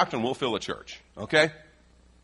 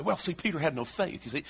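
higher-pitched put-on Southern accent; mock Southern evangelist; 5 semitones higher, 3 dB quieter than usual. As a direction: lightly imitate a Southern evangelist. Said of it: "the Southern evangelists will say".

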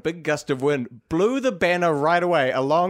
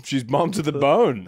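laughing; 3 dB louder than usual. Real, not acted. Laughing at co-host's joke.

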